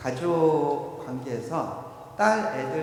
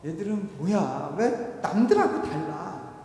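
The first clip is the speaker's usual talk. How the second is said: slow, exasperated grumble; a touch of anger, dragged out; mildly angry complaint; 3 semitones higher, 4 dB louder, slower than usual. Acted. Mother complains about her sleeping daughters, mildly angry. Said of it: "화가 났어요".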